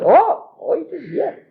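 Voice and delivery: high pleased exclamation; delighted discovery. Retold or imitated. Krishna finding the last leaf in the pot, high delighted cry. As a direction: spot the leaf with glee. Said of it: "The Lord Krishna said".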